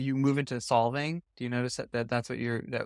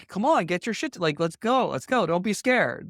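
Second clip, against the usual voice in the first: higher, brisk pushy "let's go" urging; tough-love push; 5 semitones higher than usual. Retold or imitated. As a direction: hurry the scared kid along, impatient. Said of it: "I'd be like".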